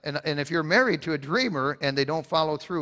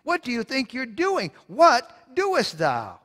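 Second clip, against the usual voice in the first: much higher, slow outraged demand; indignant questioning; 8 semitones higher, slower than usual. Pretend. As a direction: challenge God in disbelief. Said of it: "none can say to God".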